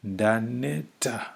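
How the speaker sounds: Ndaneta said slowly, each syllable clear; careful slow Ndaneta. Shown as a demonstration. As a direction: sound out Ndaneta for learners. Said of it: "That's the root word we want".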